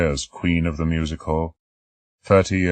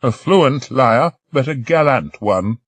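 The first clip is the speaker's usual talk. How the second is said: put-on high, slow old lady with a grin; grinning old lady; 9 semitones higher, 7 dB louder, slower than usual. Old lady teasing the doctor, slow and grinning. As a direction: tease him, grinning. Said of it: "she grinned".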